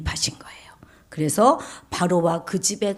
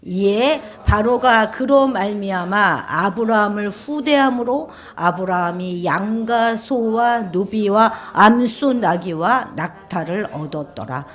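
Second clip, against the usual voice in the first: measured recitation of a Bible verse; scripture reading aloud; 4 dB louder than usual. Real, not acted. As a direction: lead the congregation in reading, phrase by phrase. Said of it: "우리 십육 절 읽어볼까요".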